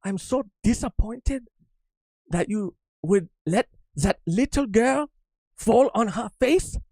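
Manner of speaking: high, slow, far-off voice full of disappointment; disappointed scientist. Retold or imitated. Cohost asks how mild Vegapunk sounds, slow disappointed lilt. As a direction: sigh it out like a let-down mentor. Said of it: "Like that".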